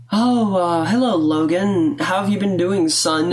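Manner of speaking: mock-formal mom greeting, drawn out; lightly put-on motherly greeting; corny greeting. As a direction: imitate a parent's stilted, corny hello. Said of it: "she don't never talk like that".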